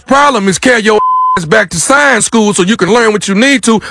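heated scolding over the phone; angry. Acted. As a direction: argue it hard, raising your voice. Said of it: "you're getting more angry".

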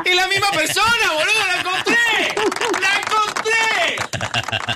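excited. Real, not acted. Host thrilled at finding voice.

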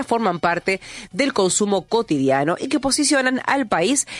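measured radio news reading. Acted. Radio host reads a fintech report to listeners, news read.

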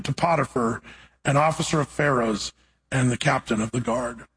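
measured, solemn Bible reading; scripture reading. Acted. Preacher reading Genesis to the congregation, solemn reading. Reads scripture passage aloud.

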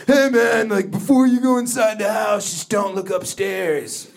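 sheepish roommate warning. Retold or imitated. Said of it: "roommates have broken".

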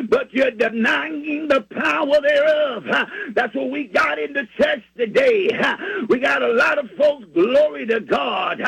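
fervent preacher's call, rising and falling; sermon cadence with shouted lines; preaching. Acted. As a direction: preach it to the congregation with fire. Preaching sermon at full force.

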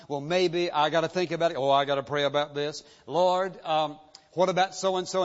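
mildly acted stalling, one excuse after another; a touch of hedging and rationalizing; stumbling, fumbling excuses. Believer making excuses to God, lightly fumbling. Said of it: "you start stumbling around and fumbling around".

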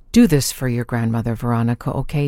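grandmother voice. Acted. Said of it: "That's me using my grandmother voice".

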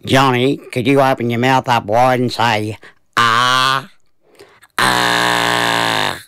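put-on a touch of a gentle doctor asking a child. A narrator's reading. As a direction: coax the boy gently like a kind doctor. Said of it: "very gently asked".

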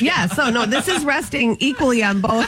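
laughing. Real, not acted. Laughing while showing her sunglasses.

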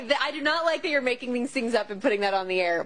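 ordinary talk, nothing marked

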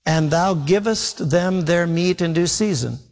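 put-on slow, solemn reading of the old wording; scripture reading. Shown as a demonstration. Preacher reading the verse aloud to the congregation, slow and solemn. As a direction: read the King James line slowly. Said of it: "it says".

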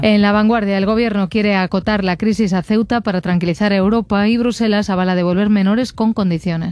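brisk, even headline read; news read. Acted. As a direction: read it as a radio press review. Reads press review headlines.

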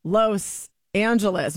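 Los Angeles with a long O in "Los", said slowly; slow, deliberate "Lohs" Angeles; careful Spanish-style pronunciation. Shown as a demonstration. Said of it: "no one says".

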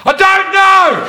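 high panicked squeak; panicky squeak. Retold or imitated. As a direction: blurt it out in a flustered squeak. Panicked answer to guard.

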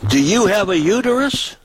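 high mock woman's voice; mock high-pitched question; mimicking woman. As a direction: squeak it up like the woman asking.

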